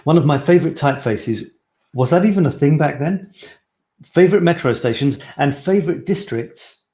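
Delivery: "favorite districts" lifted high as if the list continues; wrong reading intonation. Shown as a demonstration. Vlogger reads out the post, wrong intonation. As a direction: read "favorite typefaces" and "favorite districts" with misplaced, lilting emphasis. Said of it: "I've read that with the wrong intonation".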